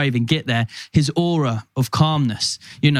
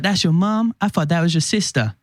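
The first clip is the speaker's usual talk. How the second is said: cheeky Pope; 4 semitones higher than usual. Retold or imitated. Pope flirting, retold.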